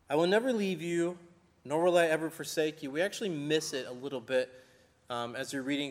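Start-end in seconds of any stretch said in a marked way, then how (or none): 0.1-2.9 firm, loud emphatic promise. Retold or imitated. Preacher quoting God's promise to the congregation, emphatic. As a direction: drive home "I will never leave you". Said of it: "it's an emphatic point".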